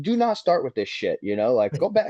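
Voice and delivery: firm retold warning. Retold quarrel after the crash.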